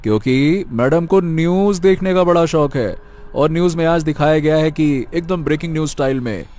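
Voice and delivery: lightly voiced young man, pushing his point; a hint of an impatient young man urging her to hurry; Aryan, young man.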